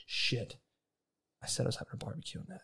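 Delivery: hushed rushed whisper-mutter, fast; panicked mutter. Retold or imitated. Realizing his police report backfired, muttering fast. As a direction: mutter it to yourself in a rush.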